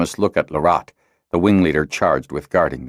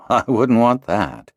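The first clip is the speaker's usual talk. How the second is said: agreeable; 6 semitones higher, slower than usual. A narrator's reading. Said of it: "Tenem said agreeably".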